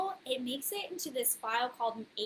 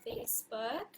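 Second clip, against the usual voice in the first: whispering; 7 dB quieter than usual. Real, not acted. Muttered aside while checking stream.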